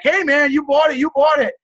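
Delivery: high, insistent brush-off; defensive refusal. Retold or imitated. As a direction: imitate a seller shutting down a refund. Acts seller refusing a refund.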